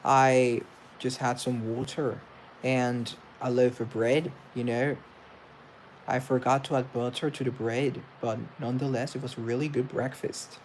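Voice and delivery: attempted Irish accent. Shown as a demonstration. Showing viewers an Irish accent with breakfast talk. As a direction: put on a light Irish lilt. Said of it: "That's Irish".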